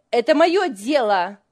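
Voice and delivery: loud, sharp angry retort. A narrator's reading. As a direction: throw it back angrily. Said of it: "сердито бросила Лиля".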